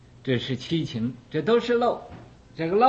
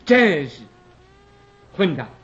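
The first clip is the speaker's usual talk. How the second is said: scolding; 3 semitones higher than usual. Retold or imitated. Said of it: "骂起来".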